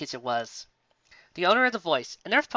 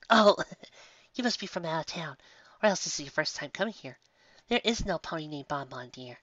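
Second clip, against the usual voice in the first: sweet baker mare. Acted. Sweetie explains the sign.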